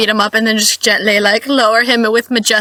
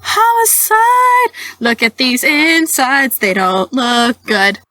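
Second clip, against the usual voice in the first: dramatic expert voice; much slower than usual. Pretend. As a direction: present the evidence like a hammy showman. Mock expert presenting evidence.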